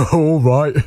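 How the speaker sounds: amused monster, laughing into the words; bursting with laughter. Acted. Gruffalo humours the boastful mouse, bursting with laughter. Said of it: "bursting with laughter".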